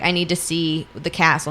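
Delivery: rough, gravelly rasp; like a voice that hasn't been used. Retold or imitated. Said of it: "like, gravelly voice of".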